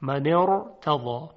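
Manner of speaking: slow من ارتضی linked as mane-rtaza; joining kasra. Shown as a demonstration. Teacher shows the linking vowel, slow joined demonstration. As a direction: link من to ارتضی with a short vowel and held ra.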